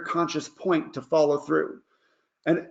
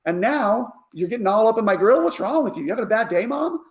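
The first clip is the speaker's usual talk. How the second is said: put-on higher, indignant teenager whine; teen complaining; 4 semitones higher than usual. Lightly voiced teen complaining to mom about being grounded. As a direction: sass the parent like a fed-up teen. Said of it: "They're like".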